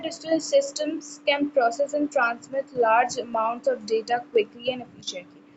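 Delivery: slow, deliberate reading pace for students to follow; slow textbook reading. Shown as a demonstration. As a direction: read the definition out slowly, word by word. Reads the textbook definition aloud. (धीमी गति से पाठ्यपुस्तक पढ़ना)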